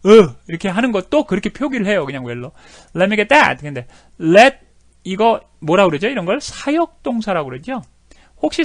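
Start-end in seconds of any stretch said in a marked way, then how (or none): 2.9-3.6 "Let me get that" said "lemme-get-et", louder; reduced "Let me get that". Shown as a demonstration. Teacher modeling the guest's relaxed line. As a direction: slur "Let me get that" together. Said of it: "제대로 발음도 안 해요".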